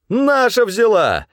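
man held by hunters jeering at the manager; defiant rant. A narrator's reading. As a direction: rant and jeer while held.

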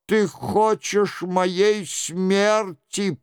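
a touch of gloom, dragged out slowly; mildly sombre mother's reproach; gloomy. A narrator's reading. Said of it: "мрачным голосом".

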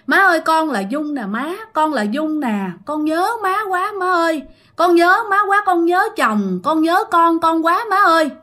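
tearful plea. Acted. Dead daughter-in-law pleading to grandma, crying out. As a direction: cry out to mother-in-law, begging. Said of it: "mà vẫn khóc".

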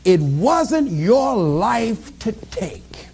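slow, measured voice from within; inner voice. Retold or imitated. Voice in a despairing man's mind, solemn and slow. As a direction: draw it out slowly and deliberately. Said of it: "a voice said to him inside his mind".

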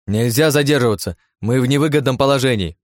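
urgent shout. Acted. Anna to Aleksey in danger: urgent shout. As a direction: push him to move now. Anna urging from driver's seat.

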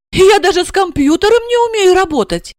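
high horrified thought. A narrator's reading. Wife horrified by her own helplessness. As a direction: dread your own uselessness. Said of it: "с ужасом подумала".

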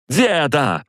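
high, drawn-out exasperated shout; full-throated yell. A narrator's reading. Granddaughter cutting off her grandfather, high sharp yell. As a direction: yell it high to silence him. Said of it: "во всё горло рявкнула Алиса".

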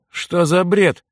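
put-on stunned boy who won't accept it; bewildered. A narrator's reading. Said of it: "растерянно произнёс Митька". (растерянно)

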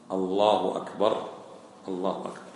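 الله أكبر, correct demo pace; correct with damma. Shown as a demonstration. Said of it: "ما في حرف واو، وإنما ضمة".

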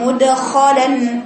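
very slow مدخلا, the د bounced with no vowel; correct qalqala. Shown as a demonstration. Teacher models the correct reading slowly. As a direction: stretch مدخلا and let the د pop cleanly. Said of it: "أحسنتي".

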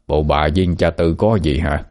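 understated, needling husband's question; snide questioning. Acted. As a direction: ask with a touch of jealous suspicion. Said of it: "ông hỏi cắt cớn". (hỏi cắc cớ, hơi mỉa mai)

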